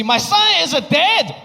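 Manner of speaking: a hammed-up worried father; mock Asian dad accent. Father calls 911 about his son, in a mock accent. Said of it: "dad calls 911".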